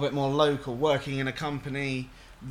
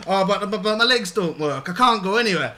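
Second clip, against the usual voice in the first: louder, stammering mock protest; imitated helpless caller; 3 semitones higher, 5 dB louder than usual. Mimicking an elderly caller offered a visit, mock helpless. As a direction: lightly play a flustered old customer making excuses.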